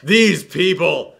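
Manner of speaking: slow it right down, shaking your head at them; slow disgusted repeat. Real, not acted. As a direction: drag out these people slowly, in disbelief.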